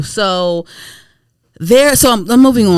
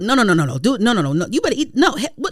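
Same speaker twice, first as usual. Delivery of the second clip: scolding uncle; 5 semitones higher, faster than usual. Retold or imitated. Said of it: "I do like, he like".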